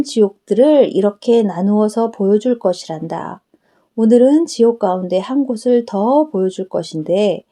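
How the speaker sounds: a hint of a tender Jesus explaining to his daughter; Jesus speaking. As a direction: answer her kindly as the Lord.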